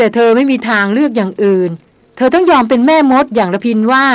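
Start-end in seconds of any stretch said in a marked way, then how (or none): 2.2-4.1 stern and serious. Acted. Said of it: "ชายยานพูดมาขึงขัง".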